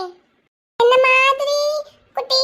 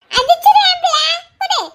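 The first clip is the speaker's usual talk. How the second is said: put-on loud, higher threat from a child grabbing a ball; child's loud angry threat over a toy; 4 semitones higher, 5 dB louder than usual. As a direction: snap at the other kid to hand it over. Kids fighting over a ball.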